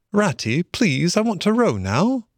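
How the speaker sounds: high, wheedling Mole voice; eager pleading. A narrator's reading. Mole to Rat, wanting a turn at the oars, high and pleading. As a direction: beg like a keen youngster, pitched high.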